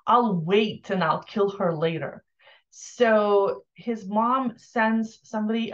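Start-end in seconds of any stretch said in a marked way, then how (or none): 0.1-2.2 lightly mocking, mild whine; whining procrastinator. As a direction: imitate a reluctant procrastinator making excuses, mildly. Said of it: "he's whining about it and procrastinating".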